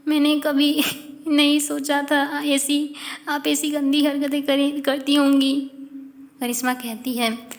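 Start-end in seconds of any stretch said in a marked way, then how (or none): 0.1-5.7 acted crying. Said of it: "जय रोने लगती है".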